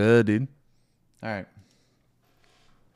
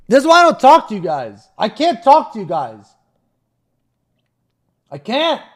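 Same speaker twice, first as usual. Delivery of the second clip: 1 mock exasperated; 6 semitones lower, 19 dB louder than usual. Real, not acted.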